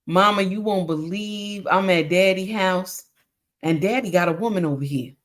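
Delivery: 略带孩子气、压低声音打小报告; lightly voiced child snitching, low and hushed-down; child tattling to mama.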